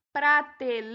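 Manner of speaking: "Prateleira" with LEI stretched long; stress on LEI. Shown as a demonstration. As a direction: lean hard on the LEI in "Prateleira" and hold it. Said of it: "o lei é a sílaba tônica".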